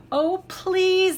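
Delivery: high, loud pleading cry; begging shout. Acted. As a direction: beg loudly like greedy cubs. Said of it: "they shouted".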